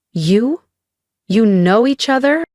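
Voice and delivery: mother taken aback, voice lifting as she asks; stunned. A narrator's reading. Stunned mother questions her daughter.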